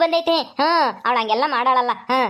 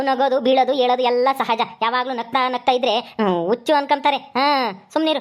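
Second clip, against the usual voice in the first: lightly voiced, higher-pitched son putting mother right; exasperated son; 4 semitones higher than usual. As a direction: rebuke a fussing mother, lively and insistent. Acts son rebuking his mother. (ಅಮ್ಮನ ಮೇಲೆ ರೇಗುವ ಮಗನ ಧ್ವನಿ)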